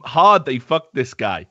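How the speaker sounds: ordinary talk, nothing marked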